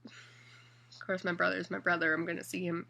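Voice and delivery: hiccuping through the words; talking between hiccups. Real, not acted. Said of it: "Sorry, I have the hiccups".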